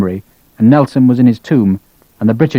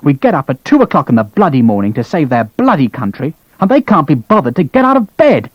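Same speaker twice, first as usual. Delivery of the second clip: seething fury; 2 semitones higher than usual. Acted. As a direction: let the outrage build. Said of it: "vent his seething fury".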